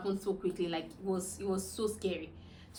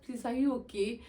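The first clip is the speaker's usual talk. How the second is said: anxious husband; 5 semitones higher, 7 dB louder than usual. Retold or imitated. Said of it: "he said".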